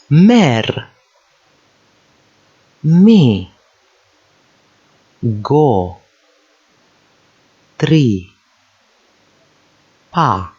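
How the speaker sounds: mer, Mi, Go, Tri, Pa each drawn out with long gaps; isolated syllables. Shown as a demonstration. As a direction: sound out mer, Mi, Go, Tri, Pa one at a time. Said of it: "individually each syllable".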